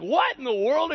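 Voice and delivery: loud, high what in the world; mock startled cry. Preacher acting out his shock, a loud startled cry. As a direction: blurt it out startled. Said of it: "I'm like".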